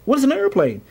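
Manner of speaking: high-pitched clown question. Acted. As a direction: ask it high, as a clueless clown. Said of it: "a clown walked past and said".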